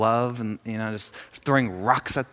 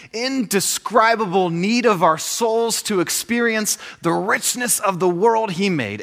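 higher, emphatic quote reading; expressive book reading; 4 semitones higher than usual. Acted. Speaker shares a favorite book passage with the audience, emphatic reading. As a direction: read it out with building intensity.

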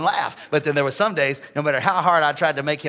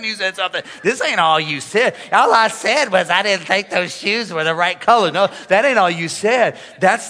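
building rebuttal; 2 semitones higher, 5 dB louder than usual. Retold or imitated. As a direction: pile it on, getting louder. Pastor answers the husband, building up.

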